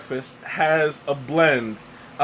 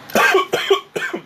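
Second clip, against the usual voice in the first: sudden choking cough; coughing fit; 4 dB louder than usual. Real, not acted. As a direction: cough hard, caught off guard. Choked on tea mid-sentence.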